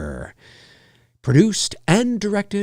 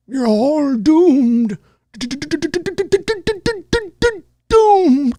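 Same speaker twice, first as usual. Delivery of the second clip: slow ominous raspy drawl; 11 semitones higher, much slower than usual. Retold or imitated. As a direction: growl out the death warning slowly. Repeating the doom-prophet line.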